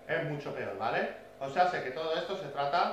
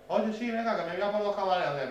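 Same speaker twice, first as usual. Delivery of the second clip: lightly mimicked keen customer, pitched higher; eager buyer; 5 semitones higher than usual. Seller mimics customers coming to buy camaleones, eager buyer. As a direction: imitate an impulsive buyer piping up.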